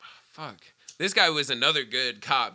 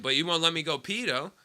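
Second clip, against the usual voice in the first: retold smart-ass pestering, slightly raised; 3 semitones higher than usual. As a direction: needle the cop with cheeky questions. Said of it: "I'm just being a smart ass".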